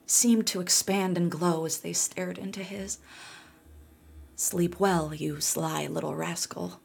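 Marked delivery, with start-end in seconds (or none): 4.3-6.8 put-on tired old voice. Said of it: "said the old woman".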